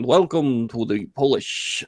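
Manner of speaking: put-on slow, half-hearted Russian accent; mock Russian accent. Host botching an accent in his welcome, mock Russian. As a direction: try a Russian accent and drag it a bit. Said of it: "that sounds very Russian".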